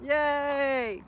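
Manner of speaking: high, sing-song praise for a good dog; praising the dog in a high pet voice. Real, not acted. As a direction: coo over the dog like a proud owner. Praising her dog Gemma.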